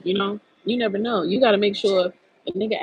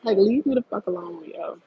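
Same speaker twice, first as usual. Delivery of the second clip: real annoyance; 2 semitones higher than usual. Real, not acted. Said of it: "I be so pissed".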